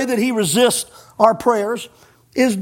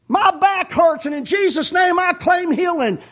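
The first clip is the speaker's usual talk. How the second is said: higher-pitched parody of a healing claim; mock proud claiming; 5 semitones higher than usual. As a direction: mimic a self-important prayer declaration. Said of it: "You're talking like a fool".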